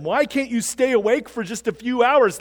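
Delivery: a touch of mock anger at sleepy followers; mildly mad. Jesus to his sleeping disciples in Gethsemane, mildly mad. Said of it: "he gets mad at them".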